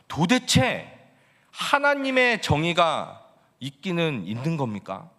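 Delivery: indignant challenge. Acted. Prophet Habakkuk demanding answers from God, indignant. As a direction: protest hotly, demanding justice. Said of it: "바로 따지는 거예요".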